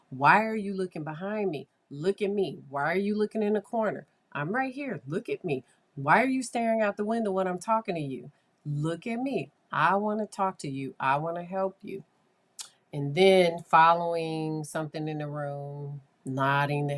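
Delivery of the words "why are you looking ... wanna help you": higher, quick, insistent questions; firm therapist repeating demands to a staring child; assertive. Retold or imitated. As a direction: keep pushing firmly for eye contact. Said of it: "I would get a little bit more assertive".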